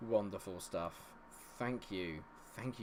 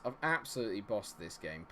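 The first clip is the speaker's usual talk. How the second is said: ordinary talk, nothing marked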